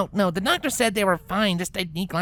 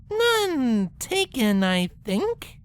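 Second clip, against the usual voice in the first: wry; 4 semitones higher, much slower than usual. Acted. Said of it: "Twilight intoned".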